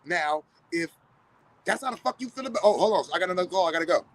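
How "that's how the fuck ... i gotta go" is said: mock outburst then hang-up. Mock angry reaction then hang-up.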